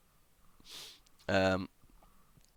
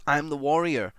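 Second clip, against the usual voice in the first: declared proudly; 4 semitones higher, 5 dB louder than usual. Shown as a demonstration. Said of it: "Or you just say".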